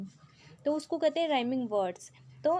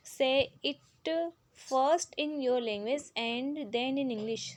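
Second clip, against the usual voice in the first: slow, deliberate reading of an English instruction; slow textbook read; much slower than usual. Acted. Teacher reads the book's question to pupils, slowly. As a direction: read each word out slowly for the class.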